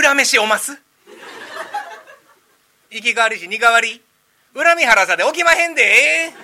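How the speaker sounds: loud, high Osaka-dialect ghost line; comic ghost in Kansai Osaka dialect. Shown as a demonstration. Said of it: "大阪弁でやれって言われたんですね".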